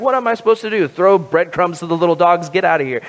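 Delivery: lightly voiced miserly boss; a hint of a grumpy skinflint dismissing a plea; Ebenezer Scrooge. Boss refusing time off, lightly acted Scrooge scorn. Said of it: "This sounds like something Ebenezer Scrooge would say".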